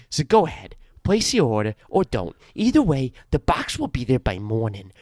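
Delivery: lightly voiced ad-read character; Rum Tum Timmy. Host voicing a made-up character for a sponsor read, lightly put-on. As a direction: read the ad copy in a mild character voice. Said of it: "That was my Rum Tum Timmy".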